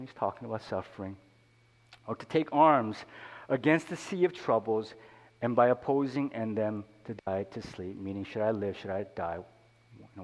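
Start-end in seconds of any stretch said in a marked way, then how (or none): 2.1-8.0 declaimed Shakespeare, slowed in places; earnest reading of Hamlet to the congregation; poem recitation. Acted. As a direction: recite Hamlet like a stage soliloquy.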